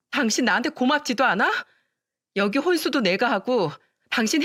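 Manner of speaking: mild anger building, voice climbing; rising voice. Acted. Wife arguing with her husband, voice gradually rising. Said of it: "점점 언성이 높아졌어요".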